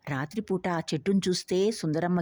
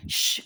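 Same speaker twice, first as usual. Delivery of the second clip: hushing shh. A narrator's reading. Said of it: "ష్!" అంది".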